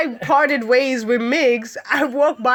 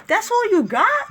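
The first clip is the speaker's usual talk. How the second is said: mocking; 9 semitones higher than usual. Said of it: "And I'm like".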